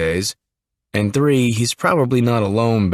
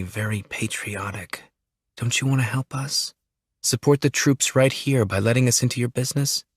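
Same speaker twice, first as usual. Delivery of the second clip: softer, sweetly coaxing; soft sweet persuasion on a nervous kid; sweet and calming; 4 dB quieter than usual. Acted. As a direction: win him over gently. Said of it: "her voice sweet and calming".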